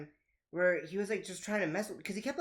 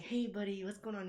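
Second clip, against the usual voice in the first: gentle concern; 4 semitones higher, 5 dB quieter than usual. Retold or imitated. Teacher comforts crying kid in hallway.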